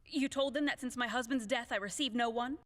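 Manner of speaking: affronted lady of the house; indignant. Acted. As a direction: demand how he got in. Widow indignant at the maid.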